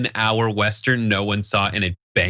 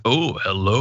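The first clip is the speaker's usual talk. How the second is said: Connery dragon; slower than usual. Retold or imitated. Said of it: "Sean Connery was the dragon".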